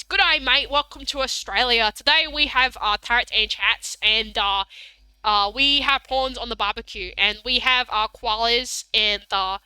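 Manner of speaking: lightly exaggerated broad Australian accent; Bogan voice. Shown as a demonstration. Streamer showing off a Bogan voice for viewers, broad Australian. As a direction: lay on a bit of Aussie bogan. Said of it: "I can do a Bogan voice".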